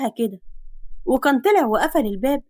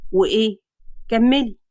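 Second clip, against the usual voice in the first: teasing hero; 2 semitones lower than usual. Acted. Man surprising girl in his room, teasing. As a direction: catch her out, amused.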